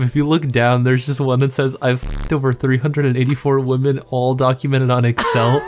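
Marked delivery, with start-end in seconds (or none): 1.8-5.6 loud reading. Real, not acted. Reading absurd post aloud, loud.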